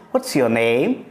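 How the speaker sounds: tender, affectionate question; loving. Shown as a demonstration. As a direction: ask it gently, with affection. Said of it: "with a lot of love and affection".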